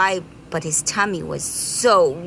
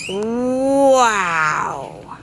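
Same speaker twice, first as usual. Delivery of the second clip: a bee's mock giggle; delighted laugh; 2 semitones higher, 4 dB louder than usual. Bee delighted.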